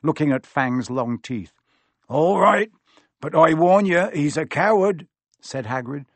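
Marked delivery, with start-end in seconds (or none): 2.1-5.1 loud, high West Country burr; concede, then warn him; hearty countryman's caution; rustic gamekeeper. A narrator's reading. Narrator voices Hagrid warning.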